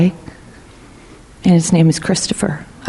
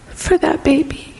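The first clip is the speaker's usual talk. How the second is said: hushed whisper; a soft, reverent whisper; 9 semitones higher, 3 dB quieter than usual. Retold or imitated. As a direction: breathe it like a secret. Teacher's prophecy, hushed.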